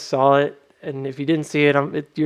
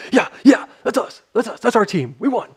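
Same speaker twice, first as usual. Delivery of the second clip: high, loud gleeful cheering; mock victory cheer; 8 semitones higher, 4 dB louder than usual. Imitating a character celebrating the win, gleeful cheer. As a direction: crow about the win like a proud teammate. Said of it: "Leroy Jenkins is like".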